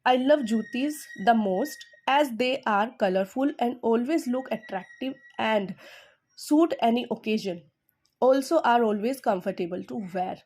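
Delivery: slow model reading, love and always hit hard, pauses between phrases; slow, careful demo reading with stress on love. Shown as a demonstration. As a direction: read it out like a teacher's model sentence with clear pauses. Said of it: "देखा मैंने कैसे पढ़ा है, मैंने इसको proper पोज भी दिया है, मैंने एक राइट स्ट्रेस यूज़ किया है".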